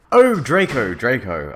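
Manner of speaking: loud, high cry falling away; shout. A narrator's reading. Ebony crying out to her lover, mock shout. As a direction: call out the name, then ease off. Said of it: "I shouted".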